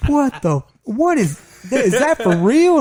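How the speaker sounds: retold stunned outburst; stunned disbelief. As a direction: gape at the snake in shock. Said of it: "I said".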